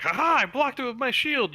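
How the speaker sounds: high-pitched mock triumph; cocky, high goblin boast; gloating goblin. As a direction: crow it like a goblin who thinks he's won. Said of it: "and he's like".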